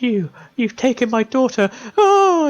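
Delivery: high, rising wail of accusation; a mother crying out that they took her daughter; anguished cry. Acted. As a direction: blame them, then break into a wail. Mother's grief breaks out.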